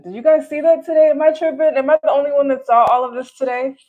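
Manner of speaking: high, loud disbelief; can't believe what I saw; incredulous. Real, not acted. Incredulous at the day's news.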